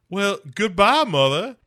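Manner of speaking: high, hammed-up chilling goodbye; mock sinister farewell. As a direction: bid goodbye like a gleeful villain.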